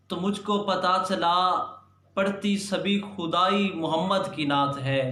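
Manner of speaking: measured naat recital with deliberate pauses; poem recitation. Acted. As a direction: recite it as devotional verse, phrase by phrase. (नात का शायराना पाठ, ठहर-ठहर कर)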